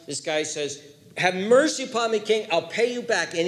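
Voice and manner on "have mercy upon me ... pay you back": pleading servant. Acted. Servant begging the king.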